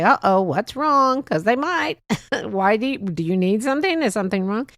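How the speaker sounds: startled friend asking if something's wrong; worried surprise. Pretend. Imagined worried reply to call.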